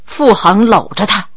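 ordinary delivery

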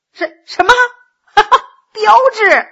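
can't believe his ears; astonished. Acted. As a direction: Gao stunned the beggar is called pretty. Gao astonished at the claim.

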